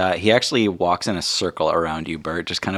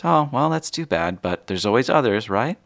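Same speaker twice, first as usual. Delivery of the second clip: lightly voiced mom, higher at the start; a hint of a soothing mother; consoling mother; 4 semitones higher than usual. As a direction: gently console your boy. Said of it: "And she says".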